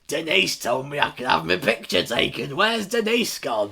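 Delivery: high, loud, slow hammed-up adoring fan; mock fan. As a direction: plead for Denise like a desperate superfan. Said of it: "This woman, like, goes up to the stage".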